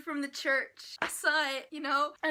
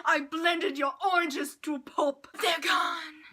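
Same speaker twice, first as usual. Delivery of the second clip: mock taunt; 2 semitones higher, 8 dB louder than usual. Voicing a character's taunt.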